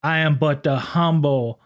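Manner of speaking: slow, prim and formal cop voice; a humble, overly polite officer of the law; mock-gentlemanly lawman. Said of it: "it kinda went something like this".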